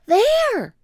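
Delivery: high, loud cry; excited shout. Acted. Annie shouts to Jack, high and loud. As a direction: point and shout.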